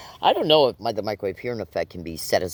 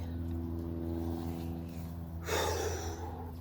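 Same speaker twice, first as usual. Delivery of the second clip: long weary sigh; 2 semitones lower, 12 dB quieter than usual. Real, not acted. Tired after catching breath.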